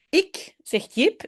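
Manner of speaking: Ik, zegt Jip said slowly, one word at a time; slow model reading of Ik, zegt Jip; slow careful reread. Shown as a demonstration. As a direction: read it again slowly so learners catch each word.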